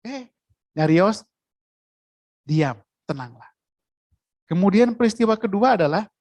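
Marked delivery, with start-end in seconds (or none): 0.0-3.5 Jesus standing and hushing the wind; hushing command. Retold or imitated. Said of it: "Yesus berdiri".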